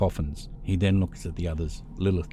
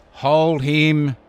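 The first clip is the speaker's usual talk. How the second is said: sharp, much louder and higher command; yell; 10 semitones higher, 12 dB louder than usual. Acted. Zack ordering his family to seize Frank, loud yell. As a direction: bark the order at the others. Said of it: "Zack yells".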